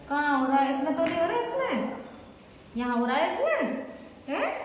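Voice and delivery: high, lilting rise on each question; gentle coaxing questions. Real, not acted. Caregiver asking papa where it hurts, coaxing high questions.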